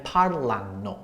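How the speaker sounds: "parlano" stressed away from the added last syllable; "parlano" drawn out, stress two syllables before the ending; stress demonstration. Shown as a demonstration. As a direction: slowly, keep the final "no" of "parlano" unstressed. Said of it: "stress is still in the same position".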